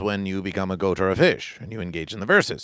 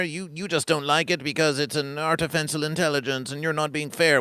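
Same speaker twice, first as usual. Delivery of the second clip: higher-pitched petulant protest, hammed up; mock complaining; 5 semitones higher than usual. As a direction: complain like a sore loser, pitch raised. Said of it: "you may whine and complain".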